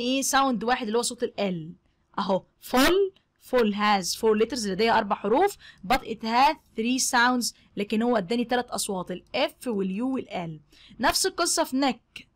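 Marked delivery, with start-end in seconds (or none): 5.9-7.5 slow teaching read. Shown as a demonstration. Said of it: "teacher models English sentence".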